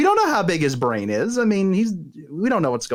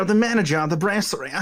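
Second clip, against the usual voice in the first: mock-British brasserie manager; British snob imitation; faster than usual. Echoing the joke in the pteranodon's voice, mock British. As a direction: put on a snooty British accent. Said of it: "a pteranodon that talks like that".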